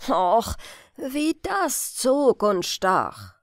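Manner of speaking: put-on slow grumbling old hare; grumbling grandfather. Old grandfather hare grumbling at his aches.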